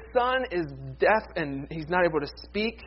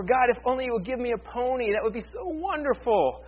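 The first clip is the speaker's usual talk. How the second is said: put-on wheedling child; 5 semitones higher than usual. Child's prayer for a pony.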